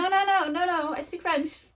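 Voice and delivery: playful exasperated insisting; mock protest. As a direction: insist with a laughing edge you speak French. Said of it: "being like".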